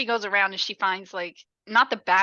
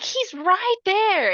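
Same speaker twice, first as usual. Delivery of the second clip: slow, high mock panic; retold panicked yell; 9 semitones higher, 3 dB louder, much slower than usual. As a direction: keep up the victim's frantic cry. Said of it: "And she's yelling".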